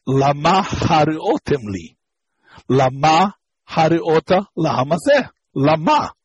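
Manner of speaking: each lama stressed as la-MA; milara stress. Shown as a demonstration. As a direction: land on the final syllable of lama.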